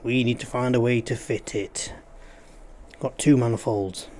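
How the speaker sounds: talking while crunching chips; chewing crisps mid-sentence. Real, not acted. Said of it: "Sorry about the crunching".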